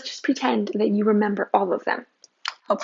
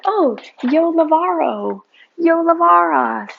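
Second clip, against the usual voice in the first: mock eager wrong conjugation; 6 semitones higher, 5 dB louder than usual. Teacher mimicking a careless student, overeager tone. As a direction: playfully mimic a student rushing the verb. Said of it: "we're just like".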